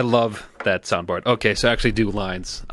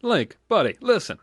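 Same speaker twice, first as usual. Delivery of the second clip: lightly raised squeaky fairy voice; a playful half-hearted Navi call; Granny's Navi; 7 semitones higher than usual. Retold or imitated. Granny streamer doing a mock Navi warning to Link. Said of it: "Granny's Navi".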